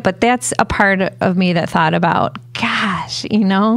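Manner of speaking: choked up, voice cracking. Real, not acted. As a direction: voice breaking with emotion. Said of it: "I can hear your, your voice cracking a little bit".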